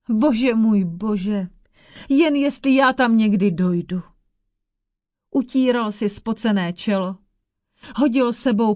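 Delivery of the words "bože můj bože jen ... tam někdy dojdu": lament. Acted. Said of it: "začal naříkat".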